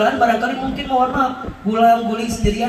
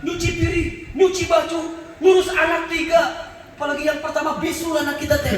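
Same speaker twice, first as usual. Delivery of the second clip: higher, half-shouted back-and-forth of tired parents; mock marital quarrel; 4 semitones higher than usual. Suami istri saling berteriak. (pertengkaran suami istri, setengah berteriak)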